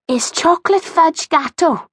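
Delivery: high-pitched jolly lady character; jolly gran. A narrator's reading. Gran tells the girls about her cake, jolly. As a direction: announce it as a cheery grandmother. Gran's voice in story dialogue.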